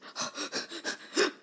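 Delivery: high stuttering mock sobs; imitated crying gasps. Daughter suddenly stopping her tantrum, gasping sobs. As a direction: imitate a kid's sobs cutting out. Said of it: "all of a sudden, it stops".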